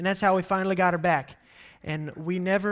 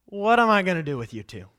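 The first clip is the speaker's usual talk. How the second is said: exasperated God; 4 dB louder, faster than usual. Acted. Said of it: "he starts out by saying".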